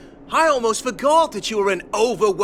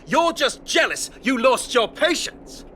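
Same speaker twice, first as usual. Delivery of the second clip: angry accusation; 4 semitones higher than usual. Acted. Angry patient accuses the doctor.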